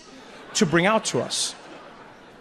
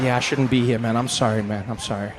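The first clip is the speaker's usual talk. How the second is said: lower, chastened apology; sheepish apology; 7 semitones lower than usual. Acted. Tourist apologises for intruding on the host, sheepish apology. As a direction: back down meekly in a low voice.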